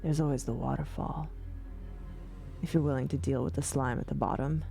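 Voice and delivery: gravelly sly hobgoblin; lightly gruff, quick and sly. Acted. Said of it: "you hear a gruff voice".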